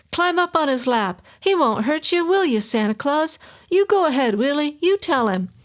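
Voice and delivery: shrill, pushy mother's screech. Acted. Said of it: "the woman's voice screeched".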